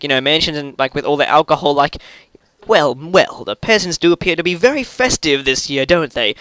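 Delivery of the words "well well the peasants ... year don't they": put-on posh British accent. British master mocking the festive peasants, in a lightly done posh British accent. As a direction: play a stuck-up British master eyeing the peasants. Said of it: "That, that British accent".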